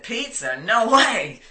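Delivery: high, shocked no-way to a pizza offer; incredulous refusal. Retold or imitated. Woman refusing her trainer's pizza, incredulous and high. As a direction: recoil at the very idea of pizza.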